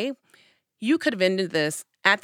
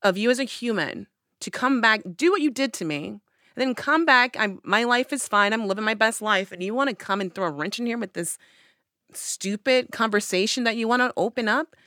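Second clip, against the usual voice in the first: indignant rant; 3 semitones higher than usual. Retold or imitated. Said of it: "I was so angry".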